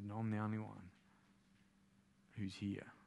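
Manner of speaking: soft, low and halting; grave hush with heavy pauses; breaking tragic news. Retold or imitated. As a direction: play a messenger reluctant to go on. Sole survivor finishes tragic report.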